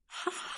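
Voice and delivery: short, soft ha-ha; understated mock laughter, very soft; staged laugh. A narrator's reading. Disciples jeering at the sect, soft staged laugh. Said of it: "started laughing loudly".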